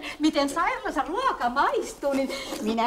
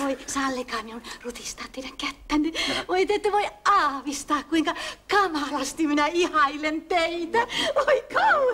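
giggling gush. Acted. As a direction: swoon over him with giggles. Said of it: "vähemmälläkin kikatuksella".

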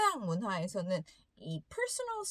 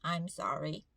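meek apology; 5 semitones lower, much slower than usual. Retold or imitated. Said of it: "너무 착하게 말을 잘 들으면서".

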